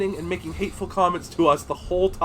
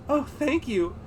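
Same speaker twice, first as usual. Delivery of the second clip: flustered thanks; 8 semitones higher, 7 dB quieter, slower than usual. A narrator's reading. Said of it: "I blushed".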